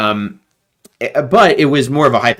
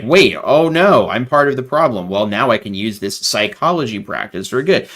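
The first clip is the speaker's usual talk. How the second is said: mock realization; 4 dB louder than usual. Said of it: "a Mormon and then is like".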